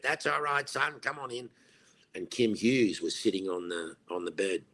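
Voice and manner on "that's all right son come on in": kindly manager. Retold or imitated. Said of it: "And then he went".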